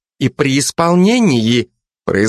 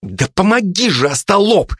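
mild shout; 9 semitones higher than usual. Acted. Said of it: "закричала на Жека Жанна".

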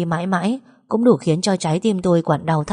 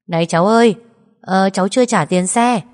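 louder, calling after the passenger; calling out loudly; 5 dB louder than usual. Acted. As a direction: driver calls her back for the fare. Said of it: "gọi lớn tiếng". (gọi to với theo)

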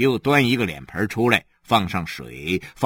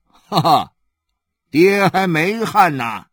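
laughing father; 6 semitones higher, 6 dB louder, slower than usual. Acted.

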